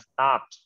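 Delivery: "stopped" in a single beat with a final t; stopped as one syllable. Shown as a demonstration. Teacher reminds class of what was taught, "stopped" as one syllable. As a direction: let the -ed of "stopped" be only a t. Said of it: "อ่านว่า stopped".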